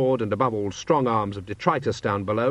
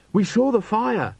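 high, drawn-out call; urgent arrival; 12 semitones higher, 3 dB louder, slower than usual. A narrator's reading. Young watchman running up to the scene, urgent. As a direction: call out as you run up.

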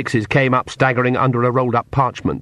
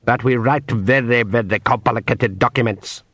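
pixie. Acted. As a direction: lay out terms with pixie cunning. Pixie continues speech.

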